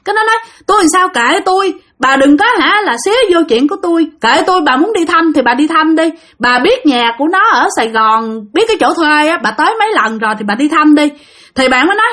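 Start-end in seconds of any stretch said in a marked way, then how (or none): 0.7-11.1 imitated defensive tirade, pitched up; heated retort, voice raised in pitch; retold scolding. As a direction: act out a friend testily saying mind your own business. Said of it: "Là nó cứ chửi bạn".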